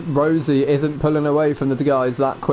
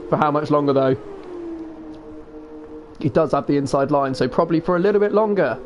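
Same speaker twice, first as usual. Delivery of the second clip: motorsport commentator. Acted. Live race commentary.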